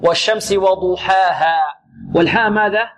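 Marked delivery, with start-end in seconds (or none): 0.0-1.6 slow وضحاها with heavy dad, long open alifs; careful tajweed. Shown as a demonstration. Teacher models the verse for students, slow careful tajweed. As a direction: draw out وضحاها, keeping the dad dark. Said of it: "مفخمة".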